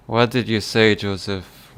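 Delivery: put-on loud Irish accent question; Irish accent, pushed out. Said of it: "I'm doing the Irish accent really well".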